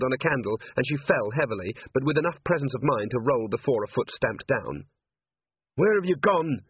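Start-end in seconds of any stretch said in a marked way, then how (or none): 5.8-6.6 yelling. A narrator's reading. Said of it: "she yelled".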